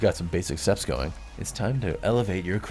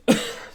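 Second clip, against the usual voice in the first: choking cough; 3 dB louder than usual. Acted. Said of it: "spice stuck in my throat".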